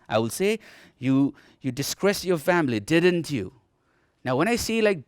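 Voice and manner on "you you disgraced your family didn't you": unsure, tip "didn't you" upward to get an answer; rising tag intonation. Shown as a demonstration. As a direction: lift "didn't you" at the end as a real question. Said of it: "So the intonation will rise".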